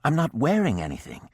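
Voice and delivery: high, fast and panicky; frantic. A narrator's reading. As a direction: blurt it out in a panic. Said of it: "she said frantically".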